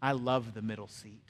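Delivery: low-pitched, lightly voiced old man; confiding elderly gentleman. Elderly seatmate confiding in the preacher, low and understated. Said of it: "he leaned in".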